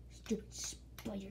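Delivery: slow, soft hushed mutter; muttered whisper. Real, not acted. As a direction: mutter it under your breath. Muttering at the spider.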